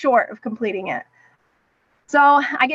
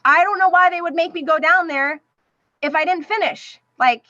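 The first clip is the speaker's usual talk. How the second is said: higher-pitched retold upset protest; mildly distraught, pitched-up complaint; retold losing it; 4 semitones higher than usual. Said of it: "and I just lose it".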